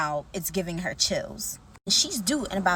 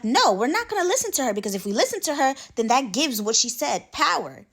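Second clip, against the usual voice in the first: higher-pitched, insistent pushback; firm refusal; 4 semitones higher than usual. Retold or imitated. Wife refuses to listen to the seller, insistent. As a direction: retell a wife digging in.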